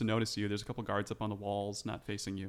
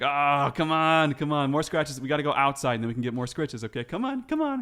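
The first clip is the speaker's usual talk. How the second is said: loud, rising doggy-talk pleading; coaxing; 5 semitones higher, 8 dB louder than usual. Acted. Guard luring the dog outside with scratches, coaxing. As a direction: coax a stubborn dog, getting higher as you go. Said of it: "trying to, like, coax you over".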